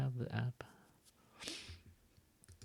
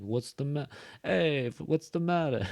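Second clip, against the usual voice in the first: higher-pitched sitcom character impression; Joey from Friends; 5 semitones higher than usual. Teacher pretending to be a favorite Friends character, impression. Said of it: "you wanna be Joey".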